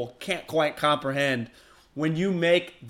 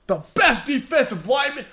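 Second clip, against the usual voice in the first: The best defensive lineman pitched much higher, scoffing disbelief; mock fan outrage; 10 semitones higher than usual. Host mimics fans attacking his tweet, scoffing high. Mocks angry fans' reaction.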